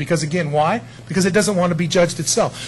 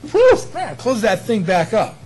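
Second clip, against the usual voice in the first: disgusted reaction; 4 semitones higher than usual. Retold or imitated. Reacting to a stench.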